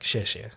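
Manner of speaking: 谢谢 said in Mandarin, xièxie with falling tones; Mandarin word. Shown as a demonstration. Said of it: "something easy is like".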